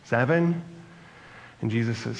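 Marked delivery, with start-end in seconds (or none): 0.0-0.6 a hint of an eager Peter, higher and louder, with a rising "Seven?"; hopeful Peter guessing high; questioning Peter. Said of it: "Peter asks".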